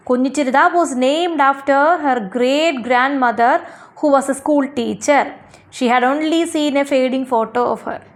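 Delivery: slow, measured textbook reading; answer read-out. Acted. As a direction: read it out slowly for children to follow. Reads out the written answer. (പാഠത്തിലെ ഉത്തരം പതുക്കെ വായിക്കുന്ന രീതി)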